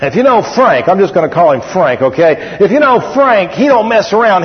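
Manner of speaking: blunt no-nonsense buddy voice, lightly done; gruff Frank. Retold or imitated. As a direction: pastor imitating his blunt gruff friend. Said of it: "He talks like this".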